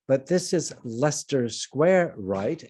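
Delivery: slow, lightly put-on Canadian accent; your best try at a Canadian accent, unhurried. Producer stalling police to finish the shot, mock Canadian accent. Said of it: "in my very best Canadian accent".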